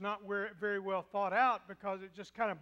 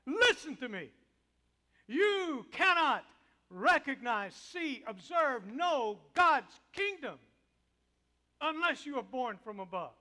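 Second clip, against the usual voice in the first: loud, high, slow scolding; angry rebuke; 4 semitones higher, 9 dB louder than usual. Acted. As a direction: confront him, shouting him down. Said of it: "the way Jesus said that".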